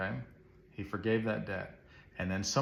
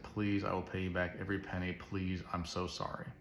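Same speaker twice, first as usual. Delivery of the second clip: begging; 2 semitones lower, 5 dB quieter than usual. Retold or imitated. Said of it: "he begged".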